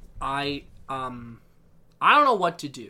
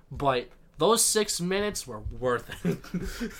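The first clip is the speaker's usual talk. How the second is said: laughing; slower than usual. Real, not acted. Gushing over favorite character.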